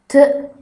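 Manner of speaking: T as a brief sound, not "te"; letter sound demo. Shown as a demonstration. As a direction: say T as a short "tı". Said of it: "diye okunur". (T'yi kısa "tı" sesiyle söyle)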